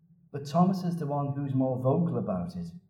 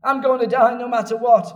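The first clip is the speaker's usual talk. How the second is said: gloomy declaration; 6 semitones higher, 8 dB louder than usual. Retold or imitated. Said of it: "A pessimist says".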